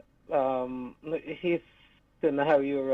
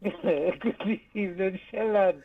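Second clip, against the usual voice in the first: laughing; 5 semitones higher, slower than usual. Real, not acted. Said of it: "I can't stop laughing".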